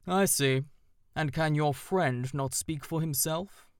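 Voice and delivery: weighty and a little aloof; owl voice. A narrator's reading. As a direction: owl questioning the crow with dignity. Owl voice held.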